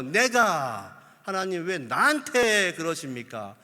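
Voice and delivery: loud exasperated protest to God; angry complaint. Acted. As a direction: Moses throwing up his hands at God. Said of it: "화가 많이 났습니다". (하나님께 화내며 따지는 모세)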